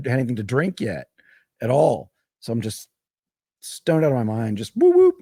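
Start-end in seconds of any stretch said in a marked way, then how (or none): 4.8-5.2 high, loud whooping cheer; party whoops. Retold or imitated. Stoned at the campsite party, loud high whoops. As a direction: let the whoops fly up like at a party.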